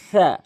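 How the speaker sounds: সা drawn out slowly and easily, not forced; relaxed sin. Shown as a demonstration. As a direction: let সা flow long and unstrained. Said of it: "একদম normally".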